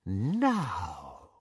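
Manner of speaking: soft, low and menacing; softly. A narrator's reading. Bellatrix turning to her sister, soft and low. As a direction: ease into it, quietly. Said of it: "said Bellatrix softly".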